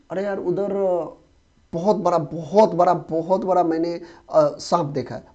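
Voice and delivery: mild astonishment, बहुत leaned on each time; acted amazed report. Teacher acting someone reporting a huge snake, mildly amazed. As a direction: tell a tall tale, pressing on each बहुत. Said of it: "जैसे अब बोलते हैं ना ऐसे कि".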